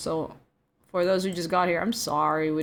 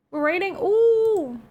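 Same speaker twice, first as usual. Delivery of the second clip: surprised; 11 semitones higher, 3 dB louder, slower than usual. Real, not acted. Surprised at raid.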